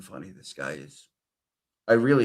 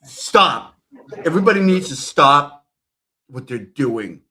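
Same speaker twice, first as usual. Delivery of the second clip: loud, much higher yell; mock furious shout; 5 semitones higher, 10 dB louder than usual. Streamer yelling at the people in the clip, mock outburst. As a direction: explode at everyone, hammed up.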